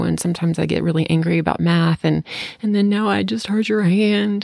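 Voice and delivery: voicing her daughter. Child's explanation, voiced higher.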